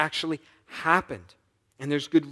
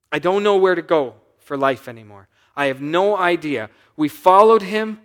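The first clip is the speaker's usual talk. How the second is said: voicing Mary's despair; 3 semitones higher, 7 dB louder than usual. Preacher voicing grieving Mary.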